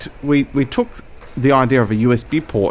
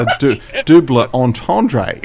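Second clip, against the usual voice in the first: laughing; 4 dB louder, slower than usual. Real, not acted. Talking while laughing.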